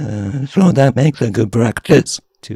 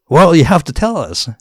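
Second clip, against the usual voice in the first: insistent publisher; 10 semitones higher, 9 dB louder than usual. Retold or imitated. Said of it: "Sanshusha is like".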